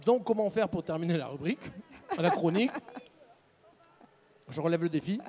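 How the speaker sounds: speaking with caramel stuck to teeth; chewing sticky toffee. Real, not acted. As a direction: mouth full of sticky candy. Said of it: "Ça colle aux dents".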